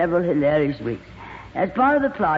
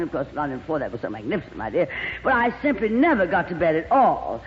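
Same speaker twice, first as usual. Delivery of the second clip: gushing glamorous actress. Acted. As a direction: coo over him like a diva. Plays Lorraine.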